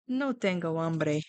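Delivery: a sulky little no; voicing Bogart. Teacher voices Bogart refusing food in a grumpy voice. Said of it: "So he would say".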